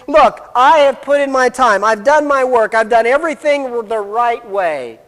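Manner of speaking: mildly acted entitled protest; self-righteous indignation. Older son lists his work to his father, self-righteous. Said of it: "His attitude is".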